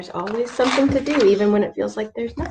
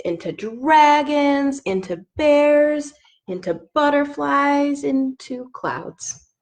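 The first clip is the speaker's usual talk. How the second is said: put-on reading to children; slower than usual. Reads picture book aloud.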